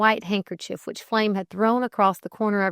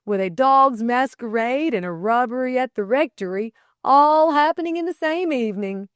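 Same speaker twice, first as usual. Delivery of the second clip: raised, lively amusement; chuckled; 6 semitones higher, 6 dB louder than usual. A narrator's reading. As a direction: build with glee to a high, loud finish. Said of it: "he chuckled".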